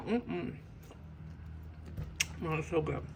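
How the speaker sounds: talking with mouth full; chewing while speaking; messy loud eating. Real, not acted. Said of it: "hear me talk with my mouth full".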